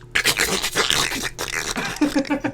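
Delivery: soft crackling mouth noise; imitated crunching noise. Doc pulls on broken arm, imitated crunching. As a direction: mimic bones grinding as they're pulled.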